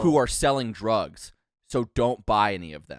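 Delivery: slow retold warning; very explicit. Uber driver warning passengers off buying drugs, slow explicit delivery. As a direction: drop the line slowly and plainly. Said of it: "he just said it, like, very, very explicitly".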